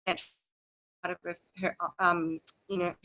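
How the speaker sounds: choppy, time-smeared call audio; words dropping out over bad internet; lagging connection. Real, not acted. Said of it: "you're lagging and we're missing quite a bit".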